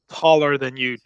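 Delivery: ordinary delivery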